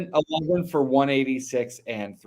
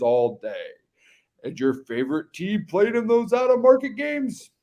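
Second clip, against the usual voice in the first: put-on hype-man commercial read, dropping away at sign-offs; Duff Man. Co-host selling a sports bar's Sunday specials, hammed-up announcer voice. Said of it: "You were a little Duff Man there".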